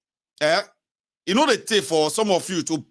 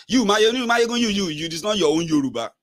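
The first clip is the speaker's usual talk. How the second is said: mock flatterer; 4 semitones higher than usual. Mimic continues.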